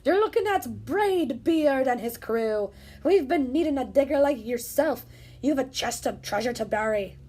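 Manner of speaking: captain greeting his new digger; pirate captain. Acted. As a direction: boast it like a captain. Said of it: "he said".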